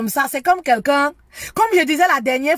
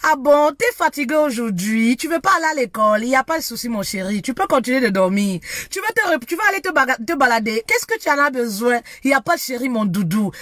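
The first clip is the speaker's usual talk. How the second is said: douceur maternelle; faster than usual. Retold or imitated. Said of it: "ça avait tellement de douceur".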